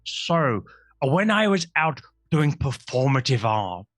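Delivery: a lightly voiced gnome, slow and earnest; gnome storyteller. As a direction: play the gnome telling his tale, slowly.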